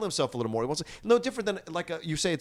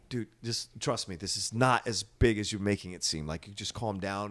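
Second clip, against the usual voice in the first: put-on calm reassuring older man; 5 semitones lower, slower than usual. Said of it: "and I go".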